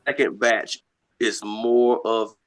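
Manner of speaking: choppy bad connection audio; cutting in and out on a call; breaking up. Real, not acted. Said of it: "Is he breaking up on y'all then?".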